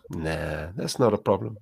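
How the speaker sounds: low, soft, offhand "nah"; casual dismissal. Shown as a demonstration. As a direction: shrug it off gently. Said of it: "I'll just go".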